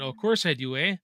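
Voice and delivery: exaggerated Canadian hoser accent, loud on the taunt; hammed-up Canadian accent. To a viewer teasing him, mock-Canadian accent. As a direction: play up the Canadian accent for laughs. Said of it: "since you have a Canadian accent".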